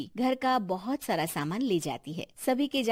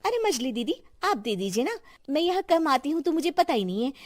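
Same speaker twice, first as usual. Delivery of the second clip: slightly higher, excuse-making voice; lightly voiced younger daughter-in-law; 5 semitones higher than usual. Youngest daughter-in-law dodging the sugar request, lightly voiced excuse. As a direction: pass the chore along with a light excuse.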